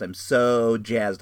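slow, savoring each word; slow drawn-out jazzed. Real, not acted. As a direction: stretch it out with delight.

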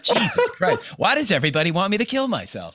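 a high shocked cry on Jesus, then exasperated; playing his own horror at the song; mock horror. Speaker mocks his own alarm at the bar music. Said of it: "And I'm like".

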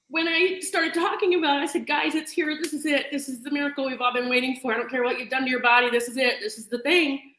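teary. Real, not acted. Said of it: "I don't know why I'm so emotional".

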